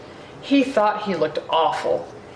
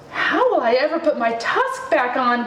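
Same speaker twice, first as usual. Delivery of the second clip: wailing; 5 semitones higher than usual. Acted. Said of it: "Ganesha wailed".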